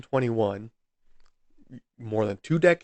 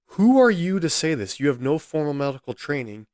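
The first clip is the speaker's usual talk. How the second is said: outraged; 3 semitones higher, 4 dB louder than usual. Real, not acted. Outraged at the coroner's claim.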